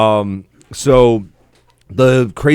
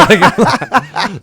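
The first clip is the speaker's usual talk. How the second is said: laughing; 10 semitones higher, 4 dB louder, slower than usual. Real, not acted. Laughing at holey boots.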